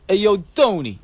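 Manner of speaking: put-on Jersey accent. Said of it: "no one from Jersey talks like that".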